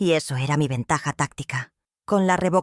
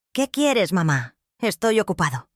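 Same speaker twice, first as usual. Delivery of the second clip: impaciente y cortante, algo más agudo; irritado; 3 semitones higher than usual. Acted. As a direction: hijo molesto que quiere colgar ya. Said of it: "Sonaba irritado". (hijo irritado al teléfono con su madre, seco)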